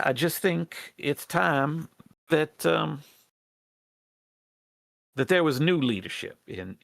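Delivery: lightly voiced rat plotter in folksy dialect; folksy character voice, halting appeal; earnest rebel rat leader. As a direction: hesitantly plead for the tribe's support.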